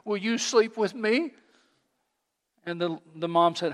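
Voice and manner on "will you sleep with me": put-on whimpering little girl. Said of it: "she finally whimpered and said".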